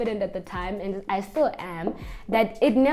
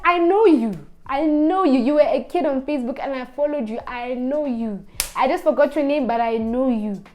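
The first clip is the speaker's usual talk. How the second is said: louder, higher insistence; insistent mock worker; 3 semitones higher, 5 dB louder than usual. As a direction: keep hammering I know you. Worker insisting he knows her.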